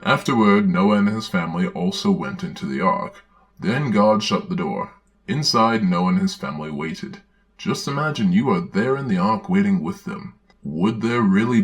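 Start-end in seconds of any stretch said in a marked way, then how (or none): 0.0-7.2 put-on earnest children's-book reading voice; storybook narration. Narrator reading a children's Bible story aloud, earnest storybook narration. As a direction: read it like a Sunday school storybook.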